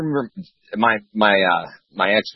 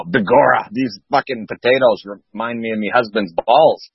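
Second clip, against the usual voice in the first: put-on a rough, raised Irish accent for an old woman; 4 semitones higher than usual. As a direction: do a clumsy Irish woman in a joke. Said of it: "The Irish accent, mm, little bit, uh, well, you need work on that".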